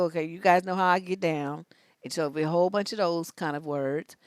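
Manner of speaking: normal talking voice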